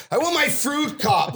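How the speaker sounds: high-pitched mock outburst; petulant, hammed-up demand; insistent shout. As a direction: yell it out in comic indignation. Retold demand, repeated more forcefully.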